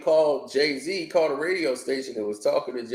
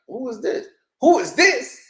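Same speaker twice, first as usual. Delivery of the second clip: imitating Jay; 11 semitones higher than usual. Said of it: "He was like".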